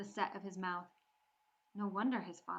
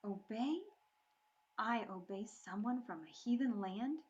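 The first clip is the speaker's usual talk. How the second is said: dripping scorn; 2 semitones higher than usual. Acted. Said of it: "her voice dripped scorn".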